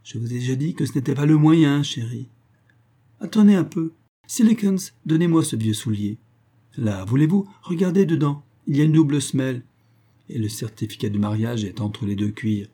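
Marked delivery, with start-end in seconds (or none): 0.0-2.3 sneering. Acted. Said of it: "La vieille femme ricane". 3.2-12.2 eager orders. Acted. Old woman ordering, agitated.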